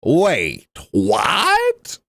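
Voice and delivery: mock confused, pitch jumping up on what; a hint of the other guy's baffled voice; imitating his reaction. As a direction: copy his startled wait, what. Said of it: "this is how he said that".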